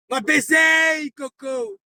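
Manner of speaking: slow, drawn-out shout of va baiser; shouted taunt. Real, not acted. Streamer taunting a viewer, slow shout. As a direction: bellow it slowly at the chat.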